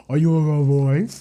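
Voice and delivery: cooing to the dog; pet talk. Real, not acted. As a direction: ask the dog tenderly. Talking to the dog.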